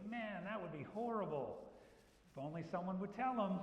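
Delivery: hamming up fake pity to get the shot; mock sarcasm. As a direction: dangle the hint sarcastically. Sarcastic hint to manager.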